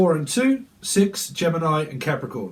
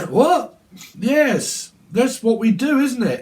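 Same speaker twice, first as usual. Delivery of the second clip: mock indignant partner; 7 semitones higher, 4 dB louder, slower than usual. Voicing partner defending himself.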